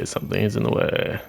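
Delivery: breathy whisper of the same line; hushed muttered repeat. Shown as a demonstration. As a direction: whisper it to yourself. Repeats the same game message.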